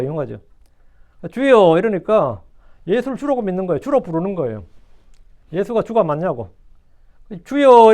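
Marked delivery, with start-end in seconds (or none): 1.3-1.8 loud acted cry to the Lord; calling out. Dying thief appeals to Jesus on the cross, calling out. 7.4-7.9 loud, raised-pitch appeal to the Lord; calling out. Acted. Thief beside Jesus calls him Lord, calling out loudly.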